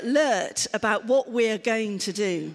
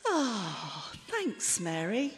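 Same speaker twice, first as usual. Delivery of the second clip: quiet, sincere thanks to Mary; gentle grateful thank-you; soft thanks; 4 semitones lower, 6 dB quieter, slower than usual. Shown as a demonstration. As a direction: murmur it gratefully. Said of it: "You can say".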